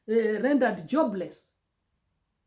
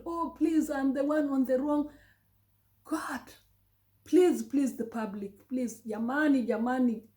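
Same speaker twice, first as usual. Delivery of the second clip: retold begging; 3 semitones higher than usual. Husband begs the boss to forgive him, mild mock begging.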